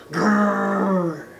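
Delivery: a short mock dog growl; playful growl. A narrator's reading. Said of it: "She growled at stray dogs".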